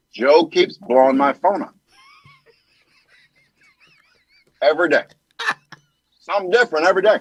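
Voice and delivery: lightly voiced halting president; long pauses between short phrases, as a statesman; president impression. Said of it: "that president that we miss".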